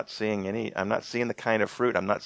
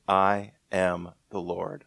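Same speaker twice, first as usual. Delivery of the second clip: slow solemn declaration; slower than usual. Shown as a demonstration. God's simple answer to Moses, slow and solemn. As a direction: say it like it settles everything. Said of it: "I love that, the way he says this".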